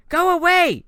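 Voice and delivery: high, loud banishing shout; yell. A narrator's reading. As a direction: drive him off with a scream. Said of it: "he yelled".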